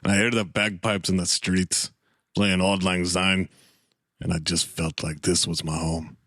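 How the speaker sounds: put-on Scottish brogue; jokey, wistful Scottish lilt; Scottish accent. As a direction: reminisce as a mock Scotsman. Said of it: "use my Scottish accent".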